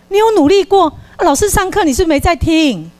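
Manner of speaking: hammed-up mother doubting her son; mock scolding mother. The mother in the role-play scolds her son, in mock disbelief.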